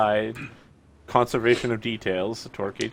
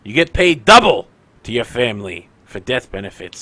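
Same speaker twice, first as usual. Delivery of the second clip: rallying shout; 2 semitones higher, 13 dB louder than usual. Retold or imitated. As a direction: shout to rouse the troops. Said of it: "And they're like".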